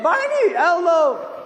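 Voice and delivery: put-on high squeal of kids calling their heroes; excited kids. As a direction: cry out like a thrilled child at a puppet show. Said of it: "the kids all excited".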